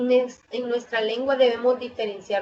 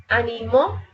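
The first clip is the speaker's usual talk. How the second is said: ánimo said as animó, stress on MÓ; stress on last syllable. Shown as a demonstration. Teacher contrasting stress positions, final syllable stressed. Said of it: "por la posición del acento podemos distinguir".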